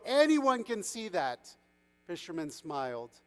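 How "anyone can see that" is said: high, slow, emphatic chorus line; whole crowd agreeing. A narrator's reading. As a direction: proclaim it for everyone aboard. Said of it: "said everyone on the boat".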